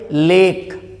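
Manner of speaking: लेक with a long 'ay' vowel; long 'e' sound. Shown as a demonstration. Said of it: "ए, तो क्या पढ़ेंगे?". (लेक में लंबा ए)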